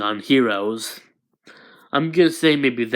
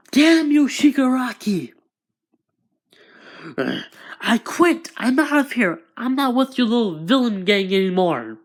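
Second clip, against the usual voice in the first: crying angry shout; 9 semitones higher than usual. Acted. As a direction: scream your goodbye to the gang. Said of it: "Twice is still crying".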